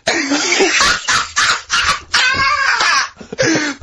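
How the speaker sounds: long, high-pitched cackle; helpless laughter. Real, not acted. Host cracking up at his friend's reply, helpless laughter.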